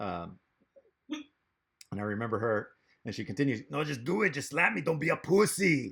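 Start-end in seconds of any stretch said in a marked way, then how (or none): 3.7-5.9 raised, badly done German accent with Spanish tinge. Retelling what a woman said to him, in a Chicano Schwarzenegger impression. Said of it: "in her German voice".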